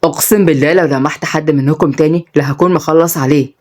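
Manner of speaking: low, menacing threat to thugs; a mild, understated angry warning; young man warns the boys who hit him, mildly angry. Acted. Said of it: "بعصبية".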